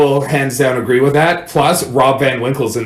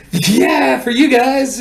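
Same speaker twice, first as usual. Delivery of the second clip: sarcastic retort; 10 semitones higher, much slower than usual. Retold or imitated. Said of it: "I'm like".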